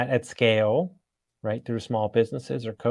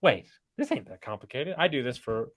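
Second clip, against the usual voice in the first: cocky self-talk; 5 semitones higher than usual. Retold or imitated. Retelling own cocky inner voice.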